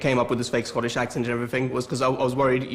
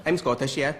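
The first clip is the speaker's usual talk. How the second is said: put-on Scottish accent. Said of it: "learn the Scottish accent".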